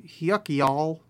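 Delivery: put-on half-hearted Southern accent; bad cowboy accent. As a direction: try out a folksy cowboy greeting, badly. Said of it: "Yeah, again, terrible".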